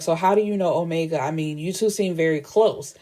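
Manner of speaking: mildly condescending retold lawyer. Lawyer questioning her client about Omega, mildly condescending. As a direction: probe with a touch of condescension. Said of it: "her tone is very condescending".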